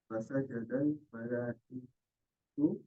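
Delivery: slow recitation. Real, not acted. Student recites Quranic phrase.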